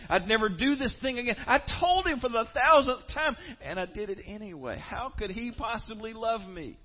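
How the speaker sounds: builds from loud to a high desperate shout; despairing cry. Pretend. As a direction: pile up each broken promise until it breaks. Voicing a despairing sinner's confession.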